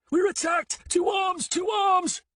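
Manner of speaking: high, loud alarm cry; shout. Acted. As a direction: yell for help with everything. Raising alarm under attack.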